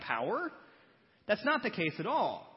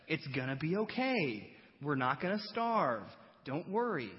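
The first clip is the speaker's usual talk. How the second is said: patient reassurance. Retold or imitated. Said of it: "And he's like".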